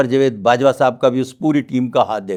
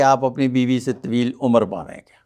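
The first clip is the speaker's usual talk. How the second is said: mock loving reassurance; 3 dB quieter than usual. Palmist tactfully telling a client about his wife, affectionately. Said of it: "بڑی محبت سے کہے گا".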